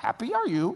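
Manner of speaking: soft, hushed murmur under the breath. Retelling hearing a Bible verse in his head: Yoda voice. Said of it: "I heard Yoda saying something like".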